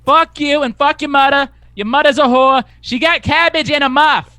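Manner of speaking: high, loud Boston insult rant; Boston accent. Retold or imitated. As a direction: rant like an angry Boston local. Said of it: "This fucking guy".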